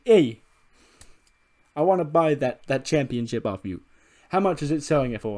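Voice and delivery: lightly voiced pushy dealmaker; Tony D'Angelo. Tony offering to buy the championship, lightly pushy character voice. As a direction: open with a high, loud hey. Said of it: "Tony D'Angelo is like".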